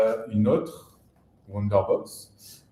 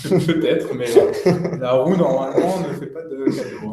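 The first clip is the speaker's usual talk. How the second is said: laughing; 5 dB louder than usual. Real, not acted. Rit en répondant.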